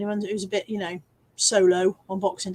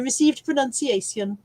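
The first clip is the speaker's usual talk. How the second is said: lightly put-on posh English accent; a touch of received pronunciation; 2 semitones higher than usual. Shown as a demonstration. Streamer announcing the posh voice, in received pronunciation. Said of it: "I'm going to start doing".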